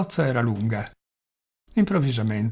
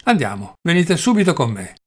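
louder, insistent order; angry command; 3 semitones higher, 5 dB louder than usual. Acted. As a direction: order him out sharply, now. Velchaninov ordering him angrily.

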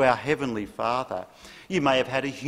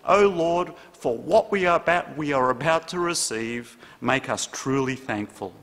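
table grace. Retold or imitated. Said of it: "the only prayer I know".

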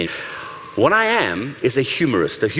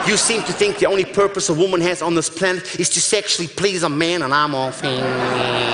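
put-on American accent. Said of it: "that American accent".

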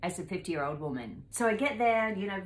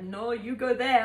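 firm retort; 6 semitones higher, 8 dB louder than usual. Retold or imitated. Arguing over the trolley spot.

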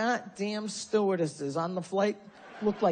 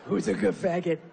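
put-on baby talk; slower than usual. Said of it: "I can't turn it off".

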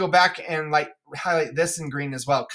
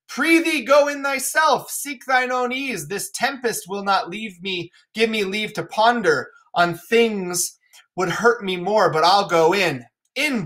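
Lear, weary; 3 semitones higher than usual. Acted. Lear urging Kent and the fool inside, weary. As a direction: gently refuse the shelter.

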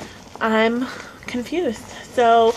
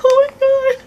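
excited; 13 semitones higher, 5 dB louder than usual. Real, not acted. Reading gift note.

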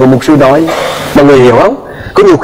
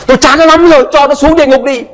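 high, exasperated mother's voice; mother venting to the pastor about her son; fed-up mother; 9 semitones higher than usual. Retold or imitated. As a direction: let her bitterness spill out.

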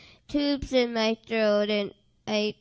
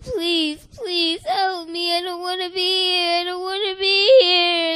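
tearful begging; 4 semitones higher than usual. Retold or imitated. Begging in vision.

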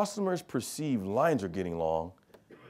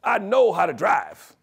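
a hint of an indignant teenager, the last bit slow and louder; teen daughter; 6 semitones higher, 5 dB louder than usual. Teenage daughter telling dad she can drive, lightly voiced. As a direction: lightly play the know-it-all teen. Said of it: "as she explained to me".

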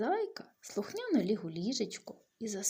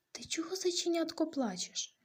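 high, breathy whisper of an owl; whispery owl; 9 semitones higher than usual. Acted. Owl to the crying bunny, high whisper. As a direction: ask like a hushed night owl.

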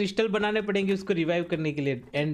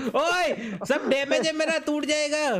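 high-pitched urgent plea; alarmed protest; 6 semitones higher, slower than usual. Real, not acted. Player to friends hitting each other, alarmed protest. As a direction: call out in alarm to stop the damage.

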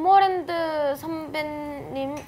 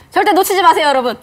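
loud, laughing sales pitch; home shopping host; 10 dB louder, faster than usual. Pretend. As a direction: urge the viewers like a TV seller. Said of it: "홈쇼핑처럼 막 해줘야 돼요". (웃으며 외치는 홈쇼핑 쇼호스트)

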